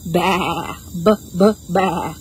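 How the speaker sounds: bleating baas; string of playful sheep calls. Shown as a demonstration. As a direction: baa like a sheep. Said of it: "A sheep says".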